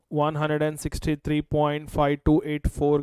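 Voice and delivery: slowly dictating each digit; slow dictation. Shown as a demonstration. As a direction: read the number out slowly for notes.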